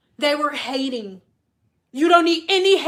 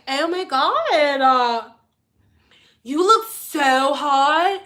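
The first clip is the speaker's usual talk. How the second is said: put-on gushing older lady; much slower than usual. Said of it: "They be like".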